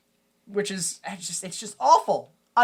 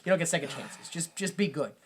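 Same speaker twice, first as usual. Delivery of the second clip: dad softening; 5 semitones lower, 7 dB quieter, faster than usual. Retold or imitated. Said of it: "so he's like".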